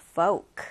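"folk" said as "foke"; "folk" with no L before the K; silent L. Shown as a demonstration. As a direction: drop the L in "folk". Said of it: "이렇게 발음이 됩니다".

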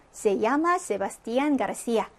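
the Spanish answer read very slowly, syllable by syllable; slow model reading. Shown as a demonstration. Teacher reading an example answer to students, very slow. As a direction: spell the name out slowly for the class. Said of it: "박사님 성함이 어떻게 되세요?".

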